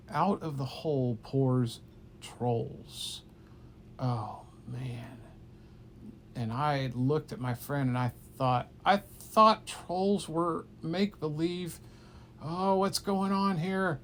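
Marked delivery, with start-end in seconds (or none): 4.0-5.2 breathy awed whisper. Acted. Telling a child a story, an awed whisper. 8.9-14.0 a touch of higher, slow disbelief; lightly voiced wide-eyed kid; surprised. Kid seeing trolls appear, mild slow disbelief. Kid's inner voice in shock.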